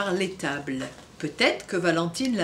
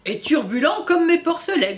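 pig grunt; 6 semitones higher, 7 dB louder than usual. Acted. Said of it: "grogna Gertrude".

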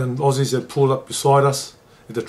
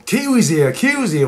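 imitating screaming fans; 6 semitones higher than usual. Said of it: "screaming, yelling".

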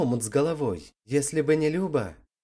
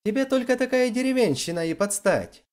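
angry exclamation; 9 semitones higher than usual. A narrator's reading. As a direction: hurl the insult before storming out. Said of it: "со злостью воскликнула она".

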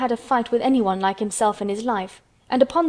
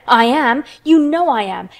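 loud, raised-pitch insistence; indignant cry; 3 semitones higher, 7 dB louder than usual. A narrator's reading. Colin insists to Mary that he is dying, crying out. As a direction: insist hotly, louder and higher. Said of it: "he cried".

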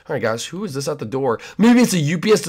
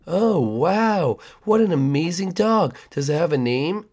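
creepy neighbor; 3 semitones higher than usual. Acted.

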